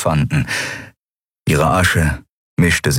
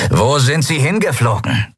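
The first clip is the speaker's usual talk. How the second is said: growled; 7 semitones higher than usual. Acted. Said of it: "knurrte Ruka".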